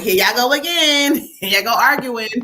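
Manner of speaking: chuckling through the words; amused giggle at a bickering couple; laughing. Real, not acted. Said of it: "So I'm laughing like".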